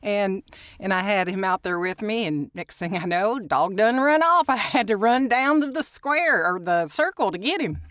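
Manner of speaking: mock Tennessee country talk; hammed-up Southern accent. Host telling how the dog ran off, playful Southern accent. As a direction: tell it as a put-on Southern yarn. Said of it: "'Cause you're in Tennessee".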